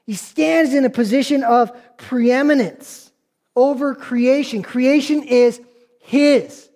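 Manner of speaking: measured preacher's emphasis, weighty pauses; emphatic preaching. Acted. Preacher explaining Jesus' authority to the congregation, emphatic preaching. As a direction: drive the point home to the congregation.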